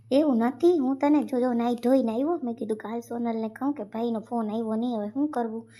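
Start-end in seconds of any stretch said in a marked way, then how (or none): 0.1-2.4 loud defensive protest; husband protests loudly to his wife, raised voice. Acted. Husband defends himself to his wife, loud protest.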